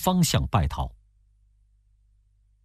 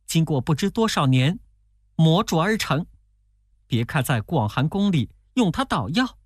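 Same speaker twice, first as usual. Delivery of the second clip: demon boasting through gritted teeth, pitched higher; a mildly voiced angry demon bragging of its weapon; higher, sneering, a touch of snarl; 7 semitones higher than usual. A narrator's reading. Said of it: "那妖怪也咬牙切齿地说".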